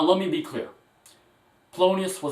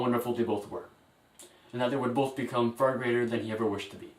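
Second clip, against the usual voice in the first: faltering tender eulogy. Acted. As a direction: speak gently, holding back tears. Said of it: "A very, very emotional moment".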